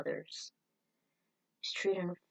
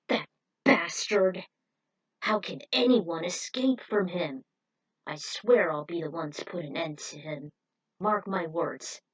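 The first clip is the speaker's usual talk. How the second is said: furious vow; 5 dB louder than usual. Acted. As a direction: spit out a vow of revenge. Voicing a character's furious vow.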